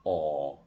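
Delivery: low, long, rounded aw from deep in the throat; long vowel aw. Shown as a demonstration. Teacher repeating the long rounded vowel low and long. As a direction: round the lips hard and pull the sound back. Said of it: "والصوت طالع من جوه".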